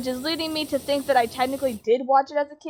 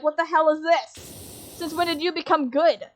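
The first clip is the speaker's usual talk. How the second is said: higher-pitched mock bewilderment; baffled disbelief; 4 semitones higher than usual. Viewer confronting Zuko over becoming a good guy, baffled. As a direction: retell a baffled reaction, voice lifted. Acted baffled reaction to show.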